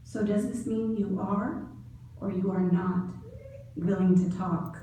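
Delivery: very low voice. Retold or imitated. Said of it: "in a very low voice".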